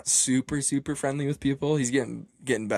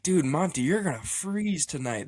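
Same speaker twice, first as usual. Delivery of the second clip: raised-pitch, worried exclamation; mock-alarmed warning, pitched up; imitated freaking out; 4 semitones higher than usual. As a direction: act out friends alarmed for him. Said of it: "They were, like, freaking out".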